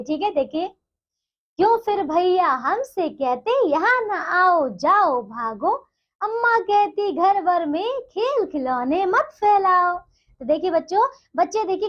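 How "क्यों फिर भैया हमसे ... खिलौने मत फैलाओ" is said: slow, measured sing-song reading of the verse; poem recitation. Acted. Teacher reciting the poem to young pupils, slow and rhythmic. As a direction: draw each line out like reciting a poem to a class.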